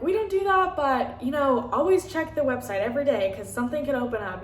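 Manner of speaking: high, bright leasing-agent voice; perky staffer brushing them off, pitched high; chirpy office clerk. Retold or imitated. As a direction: play the cheerful clerk up high. Apartment staff voiced in story.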